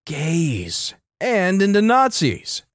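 hammed-up outrage, pitch climbing as it goes; mock screaming. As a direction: demand it with exaggerated, stretched words. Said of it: "someone is just screaming in".

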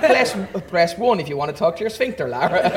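laughing automated menu options; phone menu voice. Retold or imitated. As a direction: read options like a recorded menu. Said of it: "and your liver would go".

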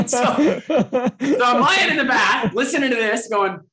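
slow words through real laughter; laughing. Real, not acted. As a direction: talk while still laughing. Laughing while telling.

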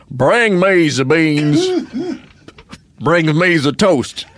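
slow, hammy fake French accent; a mock Napoleon in a bad French accent. Napoleon lamenting over beans, in a bad French accent. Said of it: "I'll try to do a French accent".

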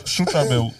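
"Shut up, Mel" run together in British accent; mock British accent. Shown as a demonstration. Playing an example for friends, mock British accent. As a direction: imitate British telling-off. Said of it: "in the British".

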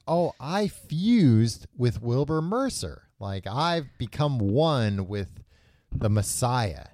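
slow, drawn-out realization; retold revelation. Retelling the hero's fusion with Mercer, slow mock wonder. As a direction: imitate someone slowly grasping something momentous.

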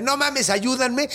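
high, slow panicked plea; drawn-out high cry for help; terrified plea. Retold or imitated. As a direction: beg the crowd for help. Terrified man begs crowd.

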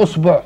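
"أصبع" opened with u, usbuʕ; pronunciation variant. Shown as a demonstration. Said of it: "هنقولها".

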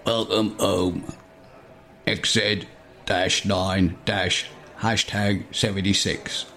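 slow soft hologram announcement; Bob's twin hologram. Acted. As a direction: intone it slowly like a machine.

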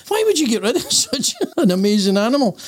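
laughing through the line. Retold or imitated. Buyer asks owner in joke.

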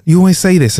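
high-pitched, stumbling accusation; exasperated husband in a domestic row. Acted. Acted husband accusing wife in quarrel.

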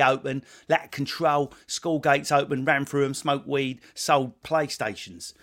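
very open London vowels; London accent. Shown as a demonstration. Host comparing London and Essex speech, London accent. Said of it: "if you listen to a London accent".

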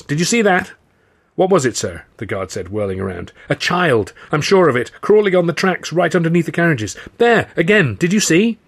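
high, urgent staged panic; faked alarm. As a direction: sell the fake emergency. Faking alarm about child.

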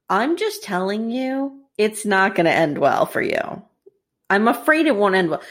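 measured warning in a lightly attempted British accent; understated British accent, not very convincing. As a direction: warn them with a hint of British. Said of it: "wish I could do a British accent".

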